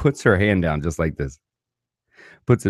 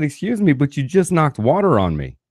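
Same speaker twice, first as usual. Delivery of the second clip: indignant high protest; 6 semitones higher than usual. Retold or imitated. Confronting the stewardess.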